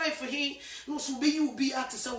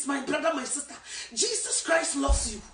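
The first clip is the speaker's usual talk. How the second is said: tender appeal. Retold or imitated. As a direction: reassure them gently. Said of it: "I say".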